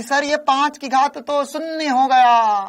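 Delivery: mock student calling out, slow and high-pitched; imitating a student. Student telling sir the answer became zero, mock protest. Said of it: "एक बालक बोला".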